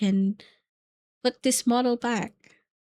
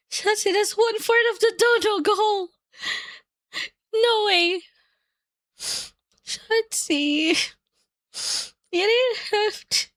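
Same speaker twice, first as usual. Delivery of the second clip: high, tearful and moved; 5 semitones higher than usual. Real, not acted. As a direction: fight back happy tears. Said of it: "I shouldn't cry".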